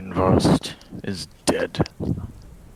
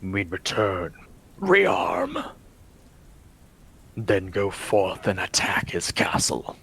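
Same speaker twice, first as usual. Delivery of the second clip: brooding vampire lord. Acted. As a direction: speak as a weary, cursed lord in a hushed voice. DM voicing vampire lord Vladimir.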